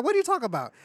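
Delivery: incredulous comic comeback; mock bewilderment. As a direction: imitate someone thrown by a remark. Acted retort in movie scene.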